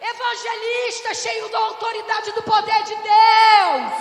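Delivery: loud, shouted preaching; fiery preaching. Acted. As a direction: preach it at full force, crowd roaring back. Preaching at full force. (pregação inflamada, gritando)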